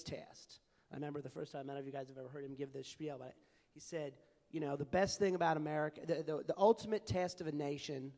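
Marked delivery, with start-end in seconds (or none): 4.8-8.1 a light, self-mocking Southern accent; bad Southern accent. Quoting the former Mississippi governor's spiel in a mild mock Southern accent. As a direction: lean into a mild Southern accent, a little louder. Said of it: "apologize for my bad Southern accent".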